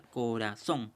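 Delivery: corazón spaced out, landing on zón; stress on final syllable. Shown as a demonstration. Teacher checking the accented syllable aloud, stress on the end of corazón. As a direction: say corazón carefully, leaning on the last syllable zón. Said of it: "se puede verificar".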